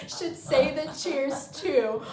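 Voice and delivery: loud, drawn-out mock suggestion; slow and high, imitating a classroom know-it-all; hand-raising classroom pupil. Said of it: "like she was in fucking class".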